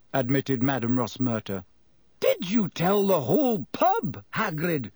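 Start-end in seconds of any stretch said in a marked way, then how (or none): 2.2-4.9 higher-pitched, exasperated question. A narrator's reading. Professor scolding Hagrid for telling the pub, exasperated. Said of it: "said Professor McGonagall exasperatedly".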